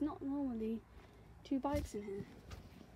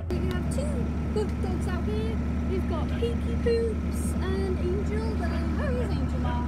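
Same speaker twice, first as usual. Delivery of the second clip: excited dog talk; 5 semitones higher, 5 dB louder than usual. Real, not acted. Talking about the dogs.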